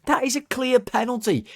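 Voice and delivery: high, indignant insistence; exasperated high-pitched protest; fuming. Real, not acted. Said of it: "I was fuming at him".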